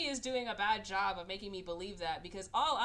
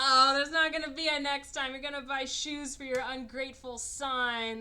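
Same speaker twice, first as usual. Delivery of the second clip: loud, raised-pitch mock scolding; scornful retort; 5 semitones higher, 7 dB louder than usual. Viewer tells the mom off over next time, loud scorn. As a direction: scold the character with exaggerated exasperation.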